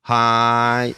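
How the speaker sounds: grateful hai. Acted. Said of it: "very grateful that your friend cares".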